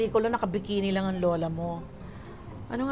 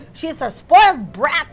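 slow, loud, higher sneer; spoiled brat complaint; 5 semitones higher, 10 dB louder, slower than usual. Retold or imitated. Director complaining to the producer, slow sneering. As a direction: drag out the insult.

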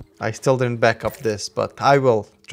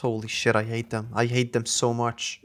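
subdued grumbling; 3 semitones lower, 6 dB quieter than usual. Real, not acted. Grumbling after trap deaths.

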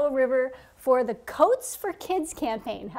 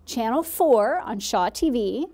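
announcer read. Acted. Reads promo segment on air.

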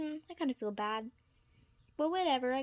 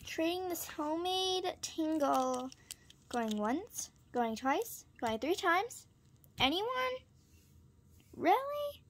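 auctioneer call; 3 semitones higher, slower than usual. Pretend. Auctioning to imaginary buyers.

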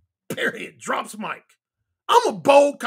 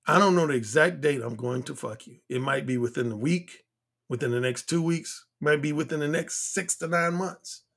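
cocky; 9 semitones lower, 4 dB quieter than usual. Retold or imitated. Retelling his cocky promise to her.

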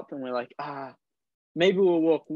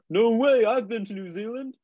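excited street seller; 8 semitones higher than usual. Retold or imitated. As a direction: imitate the guy's eager surprise. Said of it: "He's like".

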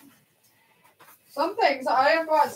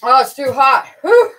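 startled yelp; 5 semitones higher, 12 dB louder than usual. Real, not acted. Hot tea burns her mouth.

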